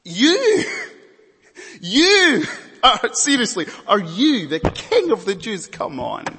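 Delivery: "You!" shouted high and loud, then "are you the King of the Jews?" scornful; emphatic YOU. Acted. Preacher voicing Pilate's sneer at Jesus, shouting "You!". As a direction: hammer the word "You" in disbelief. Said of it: "you" is in the emphatic position".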